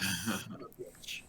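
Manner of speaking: low, slow mock groan; retold curse. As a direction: replay it deep and dragged out. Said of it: "I'm like".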